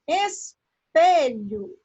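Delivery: espelho slowly split, strong PE; stress on middle syllable. Shown as a demonstration. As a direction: pause after es, then stress pe in espelho. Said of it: "tem um som mais forte".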